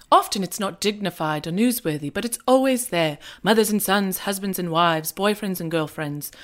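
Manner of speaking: bad British accent; lightly put-on British accent; Hugh Grant British accent. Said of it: "Excuse my terrible Hugh Grant".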